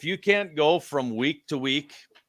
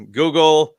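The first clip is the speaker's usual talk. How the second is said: puzzled, higher-pitched mock googling; baffled disbelief; 5 semitones higher, 9 dB louder, slower than usual. Fan googling the newly signed head coach, baffled. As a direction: drag the name out in confusion, half laughing. Acts out his baffled reaction to the news.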